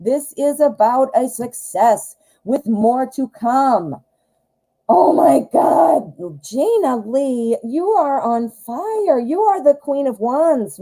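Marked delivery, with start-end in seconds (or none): 4.9-10.8 higher and slower, thrilled praise; excited gushing. Real, not acted. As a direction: rave about her like she's a star. Gushing over the client's cards.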